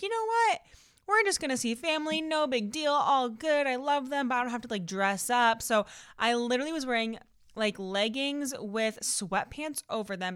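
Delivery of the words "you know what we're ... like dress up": high-pitched, carefree self-quote; breezy dismissal. Retold or imitated. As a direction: brush it off, pitched up and easing down. Retelling her breezy decision to dress down.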